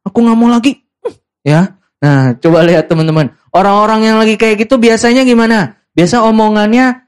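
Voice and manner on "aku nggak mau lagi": higher-pitched sulky refusal. Acted. Preacher mimics someone refusing in a huff, sulky. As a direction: act out a mock huff. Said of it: "Ya bete".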